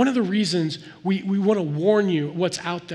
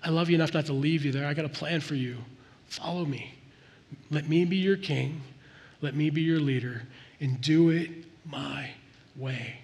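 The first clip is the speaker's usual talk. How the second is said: lower, softer, gentle divine plea; tender voice of God; 4 semitones lower, 5 dB quieter than usual. Acted. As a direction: speak it softly as God inviting you home. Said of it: "And what God said was".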